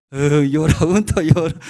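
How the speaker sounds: loud, high mock wail; imitated crying. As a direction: act out a child joining in the crying. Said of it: "mirando el hijo también, eh, llora". (llanto imitado, fuerte y agudo)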